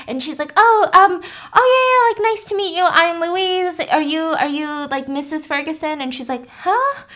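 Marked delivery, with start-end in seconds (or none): 0.6-6.0 higher, louder nervous stammer; flustered. Retold or imitated. Louise caught off guard. 6.5-7.0 high surprised huh; puzzled huh. Retold or imitated. Adele confused.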